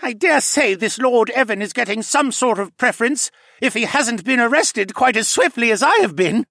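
high, loud contemptuous retort; curled-lip sneer. A narrator's reading. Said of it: "replied with a curled lip".

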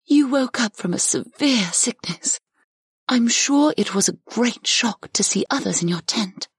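high, reassuring character voice; soothing goddess. A narrator's reading. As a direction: soothe a startled patient, pitched well up. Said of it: "assured the woman in a soothing voice".

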